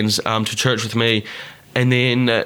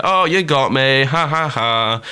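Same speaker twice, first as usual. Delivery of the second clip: slow, spoken fake ha-ha; laughing it off; slower than usual. Awkward friend answering the girl, laughing it off. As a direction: imitate awkwardly playing along with a joke. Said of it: "laughing it off".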